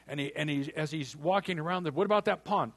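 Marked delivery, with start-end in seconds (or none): 1.9-2.7 higher and louder, marveling; amazed question. Acted. Hank asking the butler about the pond, amazed. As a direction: point at the pond and gape.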